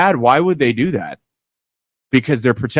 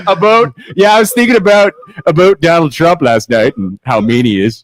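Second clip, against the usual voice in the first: put-on Canadian nice-guy accent; 2 semitones higher than usual. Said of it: "I want that voice".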